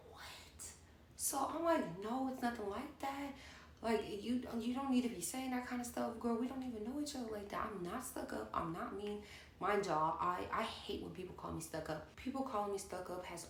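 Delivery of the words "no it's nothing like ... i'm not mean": flustered pleading. Retold or imitated. Flustered defending herself.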